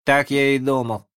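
put-on high, excited boy voice; agitated. A narrator's reading. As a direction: blurt it out, worked up. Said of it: "сказал Задира взволнованно".

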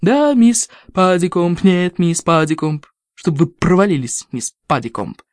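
slow, gritted-teeth mockery; contained shout. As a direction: mutter curses through clenched teeth. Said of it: "процедила сквозь стиснутые зубы Гремли".

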